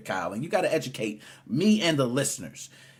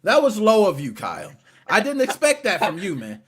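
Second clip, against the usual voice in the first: mock hurt; 4 semitones higher, 5 dB louder than usual. Host mock-scolding Kyle for his jab, hammed-up hurt. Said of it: "I'm just giving you crap".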